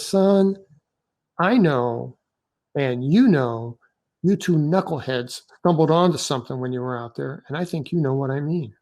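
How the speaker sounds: lightly imitated Southern officer; a hint of a deep Southern accent, retold. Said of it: "in this deep Southern accent".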